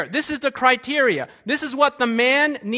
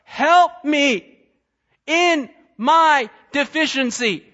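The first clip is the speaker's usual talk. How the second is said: crying out; 2 semitones higher, slower than usual. Retold or imitated. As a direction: call up to God from the bottom of the gap. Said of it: "he cries out and says".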